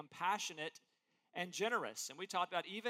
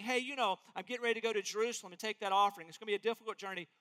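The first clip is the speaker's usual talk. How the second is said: breezy, offhand, rushed; a hint of a careless Paul; mock casual request; faster than usual. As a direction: toss off a throwaway ask, quickly. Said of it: "He's not saying".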